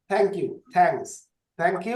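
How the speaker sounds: "Thank you, thanks" with the tongue between the teeth on th. Shown as a demonstration. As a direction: model the dental th in "Thank" and "thanks". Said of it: "এই যে জিহ্বাটা দাঁতের মধ্যে দেবে".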